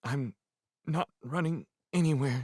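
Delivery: very small voice. Narrator reads a character told to stay behind, answering in a small voice. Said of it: "He said it in a small, small voice".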